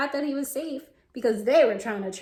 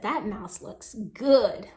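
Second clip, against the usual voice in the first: hungry fox; 4 semitones lower, much slower than usual. Retold or imitated. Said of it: "He said".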